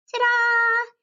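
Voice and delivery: high, loud proud reveal; big showman flourish; triumphant ta-da. Acted. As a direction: present it like a magic trick. Unveiling the finished painting.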